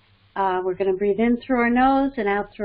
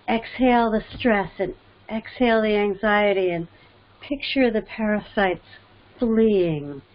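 guided breathing; 2 semitones lower than usual. Acted. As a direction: lead them calmly through each breath. Leads a breathing exercise.

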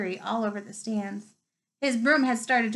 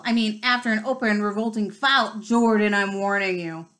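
stern, louder warning; growled; 4 dB louder than usual. Acted. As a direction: scold the commentator sharply. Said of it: "growled Professor McGonagall".

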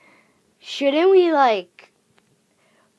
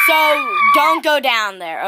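shouted warning; 3 semitones higher, 4 dB louder, slower than usual. Pretend. Ghost warns kids off basement.

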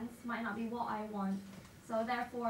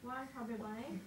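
cheeks stuffed full; 5 dB quieter than usual. Real, not acted. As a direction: mouth full of marshmallows. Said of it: "do the Chubby Bunny Challenge".

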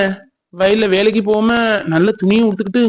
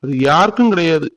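wounded, higher-pitched lovelorn complaint; bitter heartbreak; 4 semitones higher than usual. Acted. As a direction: reproach the absent lover, then plead with God. Jilted lover laments alone to God. (காதல் வலியோடு கசப்பான புலம்பல்)

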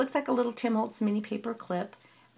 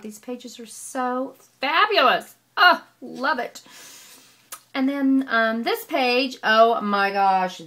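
louder, drawn-out gushing praise; delighted gushing; 2 semitones higher, 9 dB louder, slower than usual. Real, not acted. Crafter raving to viewers about swap pages, excited. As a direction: swoon over the pages.

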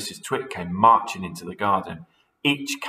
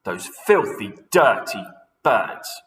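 mild yell; 5 dB louder, slower than usual. Acted. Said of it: "yelled Mister Twit".

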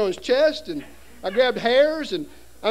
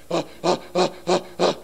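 panting like beached whale; 3 semitones lower than usual. Retold or imitated. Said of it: "just like a beached whale".

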